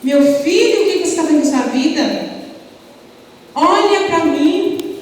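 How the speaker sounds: pleading father crying out loud to his son; retold desperate shout. Father at the police station begs his son, desperate shout. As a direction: call out to him like a frightened father. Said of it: "começou a gritar".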